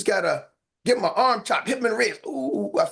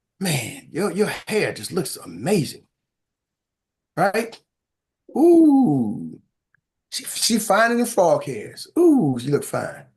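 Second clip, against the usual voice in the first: flirty, seductive sexy voice with long ooh; 3 semitones lower, 3 dB louder than usual. Speaker showing the fellas and ladies some pickup lines, sexy voice. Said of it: "I'm gonna put my sexy voice on".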